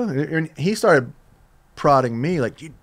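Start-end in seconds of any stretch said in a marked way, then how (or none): 2.6-2.7 a badly faked Welsh accent, dropping to a whisper; imitating Skin's Welsh accent, a bit lame. The speaker imitating Skin's Welsh accent, badly faked and soft. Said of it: "That's a bad accent".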